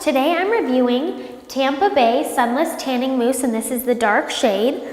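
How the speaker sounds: congested voice from a cold; stuffy nose. Real, not acted. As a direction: speak with a blocked nose. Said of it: "if I sound a little congested".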